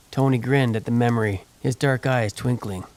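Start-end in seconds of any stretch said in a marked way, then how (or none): none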